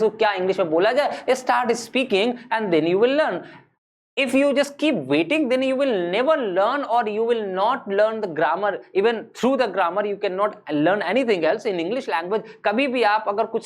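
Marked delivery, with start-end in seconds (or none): 1.3-12.4 very slow, deliberate English; slow, carefully paced teacher English. Shown as a demonstration. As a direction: spell it out slowly for learners. Teacher switches to slow English advice.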